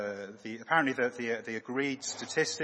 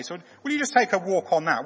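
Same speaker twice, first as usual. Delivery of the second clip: acted test question; 5 semitones higher, 9 dB louder than usual. Acted shibboleth test scene.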